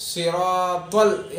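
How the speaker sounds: slow, rounded صراط ال; elongated emphatic صراط; heavy saad. Shown as a demonstration. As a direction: give صراط a full, heavy s and long vowel. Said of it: "صاد ہے".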